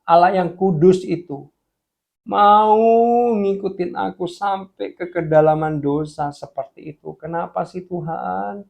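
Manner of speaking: acted anguished question to God; retold tearful prayer. Repentant man asking God why, in rising anguish. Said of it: "Dia nangis".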